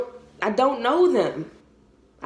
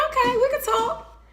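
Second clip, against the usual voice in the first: much higher, laughing through the words; laughing reply; 13 semitones higher than usual. Retold or imitated. Mother laughing as she agrees to talk with her son, giggly and high. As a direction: let a laugh carry the yes.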